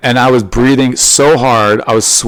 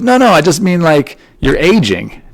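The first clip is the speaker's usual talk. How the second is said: higher, slowing on aging, lightly imitated wife; mock wife backpedaling; 7 semitones higher than usual. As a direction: hurry to explain, then stretch it out. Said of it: "And she goes".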